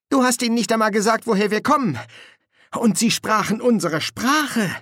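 high, quick questioning corporal; puzzled corporal. Acted. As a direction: press your sergeant about the oddity. Nobby challenges Colon.

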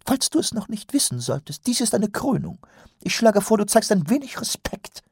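high, haughty sneering voice; mustache twirling villain. Acted. Priest rebukes Wonse at coronation.

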